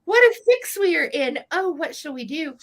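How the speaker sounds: high, loud storybook cry for help; hammed-up storybook panic; dramatic cry. A narrator's reading. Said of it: "Miss Mew cried".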